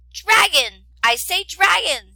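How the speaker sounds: loud, high call. A narrator's reading. Princess calls to the dragon in its cave, loud high call. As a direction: hail the hidden dragon.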